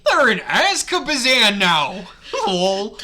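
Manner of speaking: high, loud, slow cartoon mouse; Mickey Mouse. Character tells narrator where the victims are, cartoon mouse voice. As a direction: draw it out like a jolly cartoon mascot. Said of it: "read that in a Mickey Mouse voice".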